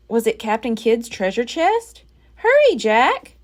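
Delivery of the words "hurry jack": high, slow, loud call; cried. A narrator's reading. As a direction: call urgently. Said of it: "cried Annie".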